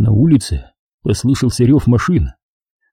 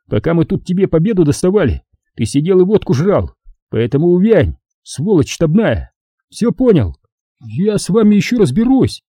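raised, scornful tirade; contemptuous soldier; 4 semitones higher than usual. Acted. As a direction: put the staff rat in his place. Vitka berates staff officer.

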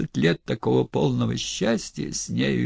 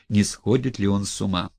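ordinary delivery

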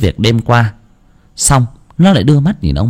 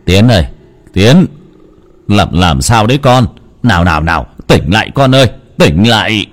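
grandpa calling. Acted. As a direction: shake him awake with your voice. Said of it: "giọng của ông cụ Long gọi".

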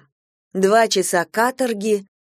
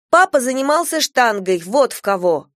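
high, quick blurted answer; 6 semitones higher, 4 dB louder than usual. A narrator's reading. Girl blurting to grandmother about father's weightlifting, eager. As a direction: blurt it out hoping to calm them. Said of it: "выпалила я".

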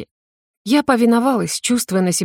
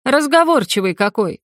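a witch's sneer, pitched up; irritated wince; 5 semitones higher than usual. A narrator's reading. Witch sneers at the talkative dragon, irritated. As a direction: scoff at the chatty captive, higher. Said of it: "поморщилась Тириана".

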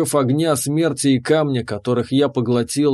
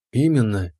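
proud; 3 semitones lower than usual. Acted. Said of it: "гордо сказала хранительница".

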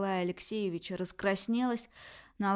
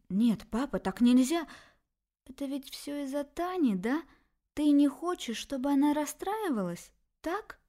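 higher, louder pleading daughter; upset young daughter; 7 semitones higher, 5 dB louder than usual. Acted. Daughter confronts her father, upset and insistent. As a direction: press your father, hurt and insistent.

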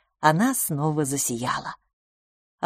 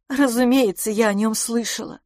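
higher, hot protest; indignant, pitched-up retort; heated; 5 semitones higher than usual. A narrator's reading. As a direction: insist on it hotly. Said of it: "горячо сказала мисс Петтигрю".

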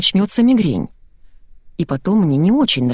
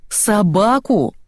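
surprised; 3 semitones higher, much slower than usual. A narrator's reading. Narrator surprised, repeats word.

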